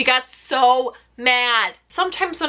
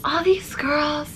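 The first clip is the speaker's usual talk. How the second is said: Crystal attempt; slower than usual. Shown as a demonstration. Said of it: "how do you do a proper Crystal".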